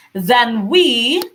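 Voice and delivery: "Then we" with "we" stretched and lifted; light "Then", leaning hard on "we"; stress on WE. Shown as a demonstration. Teacher scanning the verse for students, stress on "we". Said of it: "we here is stressed".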